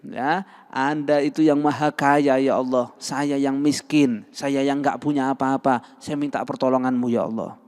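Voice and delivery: doa merendah, agak lambat; humble pleading prayer. Shown as a demonstration. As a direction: merendah seperti orang miskin. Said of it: "Rendahkan dirinya". (contoh doa orang yang merendahkan diri)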